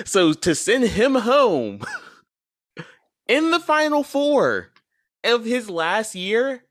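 high and slow, laughing through it. Real, not acted. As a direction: laugh the words out.

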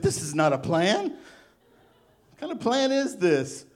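mock kung fu master voice, laughing at the end; mock Karate Man. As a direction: drag the question out like a cartoon karate master. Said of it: "Karate Man would have said it like that".

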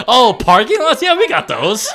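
laughing as it finally clicks; giggling "Yeah, we got those"; laughing realization. Retold or imitated.

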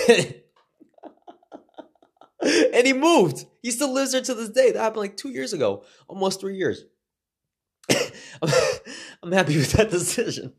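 amused relief bubbling over; laughing. Real, not acted. Telling listeners friend moved away, giggling.

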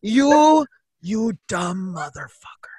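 furious, dropping to a hushed curse. Acted. Player cursing injured companion in character, furious and hushed. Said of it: "I'm furious".

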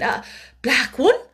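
high, hesitant echo; flustered, uncertain question; bewildered stammer. A narrator's reading. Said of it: "Miss Amelia stammered again".

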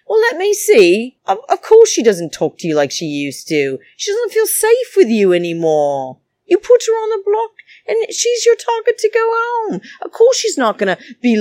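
fired up and fed up, almost breaking; exasperated rant. Real, not acted. Vlogger ranting at Christmas over targeting her friend, exasperated.

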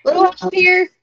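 hushed but loud call for help; strained whisper-shout; whisper yelling. Acted. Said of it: "I kind of whisper yell".

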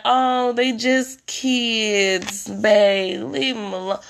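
slow, lazy brush-off; dismissive partner. Retold or imitated. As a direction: shrug it off like a partner defending the kids. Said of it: "they be like".

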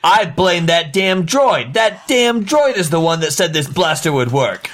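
pin it angrily on someone else for the crowd; staged angry outburst; indignant blame. Acted. Acted quarrel, blaming the droid.

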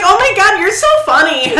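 high, giggly fake flirt; high and loud, laughing while playing a flirt; mock flirting through laughter. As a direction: gush at him in a laughing, jokey come-on. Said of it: "aggressively hitting on one as a joke".

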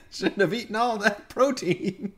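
high, hammed-up voice of a body used as bait; talking corpse. Player voicing a strung-up body to lure aliens, mock calling out. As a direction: play the helpless bait, high and silly. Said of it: "make it call out to Davis".

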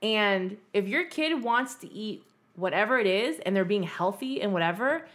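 lecturing parents. Pretend. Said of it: "Be like".

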